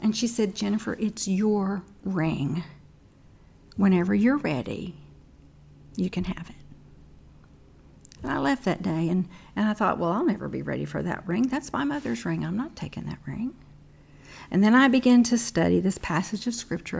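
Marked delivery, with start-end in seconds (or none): 0.6-6.6 gentle mother. Retold or imitated. 10.0-13.5 stubborn inner thought. Retold or imitated.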